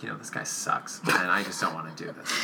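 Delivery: a hint of the producer muttering under his breath; muttered aside. Co-host voicing a fed-up producer, hushed muttered aside. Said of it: "that producer was just like".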